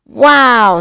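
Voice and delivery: high, very loud wow; awestruck little cub. A narrator's reading. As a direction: burst out in childlike awe. Cub awed by grandpa's roar.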